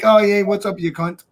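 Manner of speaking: 1 friendly greeting. Retold or imitated. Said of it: "I was like".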